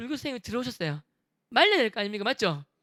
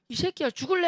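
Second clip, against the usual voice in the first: sharp swearing shout, higher; mock angry yell; 6 semitones higher, 3 dB louder than usual. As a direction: charge in cursing at him. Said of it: "욕하면서 달려갔어요".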